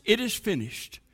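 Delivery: sudden drop to very soft; hushed whispering. Acted. Trees tell the birds in branches, hushed and whispering. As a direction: pass it along as a quiet secret. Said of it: "The trees whispered to the birds".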